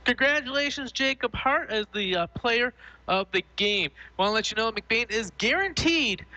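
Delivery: sports announcer congratulations. Acted. Host congratulating the player of the game, announcer voice. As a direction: proclaim it to the radio audience.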